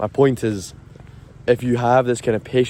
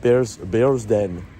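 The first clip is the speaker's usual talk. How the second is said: slow, posh Bearsden accent; much slower than usual. Shown as a demonstration. Trying the name once more, Bearsden accent. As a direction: draw out "Bears Den" in posh Glasgow. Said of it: "I'm going with Edinburgh there".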